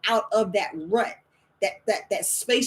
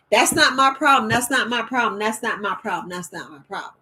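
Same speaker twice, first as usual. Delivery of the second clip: firm refusal, fading. Acted. Refusing everybody else's emergencies, firm then fading. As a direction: repeat it like a refrain, dying down.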